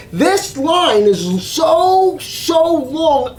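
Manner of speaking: "so" stretched out long, twice; complaining with a long-drawn "so"; exasperated emphasis. Retold or imitated. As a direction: drag out "so, so long" in a gripe. Griping about a long queue.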